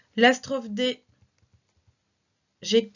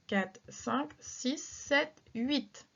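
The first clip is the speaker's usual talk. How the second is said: counting syllables; 4 dB quieter, slower than usual. Shown as a demonstration. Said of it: "J'ai ici donc un vers de huit syllabes".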